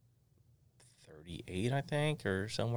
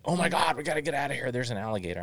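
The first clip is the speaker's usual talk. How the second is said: 1 mock panic; 6 semitones higher, 3 dB louder, faster than usual.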